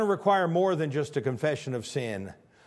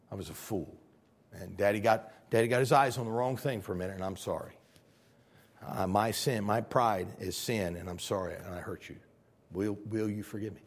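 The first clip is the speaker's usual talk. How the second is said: put-on lower, subdued apology to the kids; acted sincere apology; 5 semitones lower than usual. Acts father apologizing to his kids.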